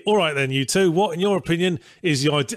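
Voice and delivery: put-on slipping into a Cockney accent. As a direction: read it like a cheeky Cockney. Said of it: "you're just naturally doing this in a Cockney accent".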